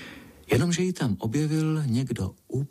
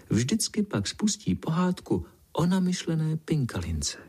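put-on lightly higher, chirpy little girls' voices; ladybirds' chorus; 4 semitones higher than usual. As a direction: play the giggling ladybird daughters.

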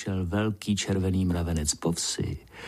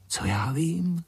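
light, higher-pitched cheery reply; cheerful wind; 7 semitones higher, slower than usual. A narrator's reading. Wind answers the grumpy ant, cheerfully. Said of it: "veselé hvízdl vítr".

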